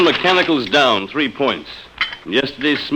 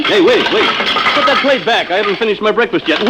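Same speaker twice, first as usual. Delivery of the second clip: higher, laughing, half alarmed; flustered laughing protest; 5 semitones higher than usual. Acted. Husband stopping the robot taking his plate, laughing and flustered. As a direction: laugh while grabbing back the plate.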